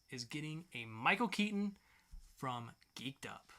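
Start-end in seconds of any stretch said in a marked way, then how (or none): 2.4-3.5 soft, slow whispered tag. Acted. Host signing off the review, slow whisper. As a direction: breathe the show name like a secret.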